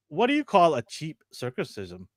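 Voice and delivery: lightly done Filipino accent. Shown as a demonstration. Podcaster telling a dad joke to show the accent, Filipino accent. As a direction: tell it in a mild Filipino accent. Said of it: "Dad joke for the accent".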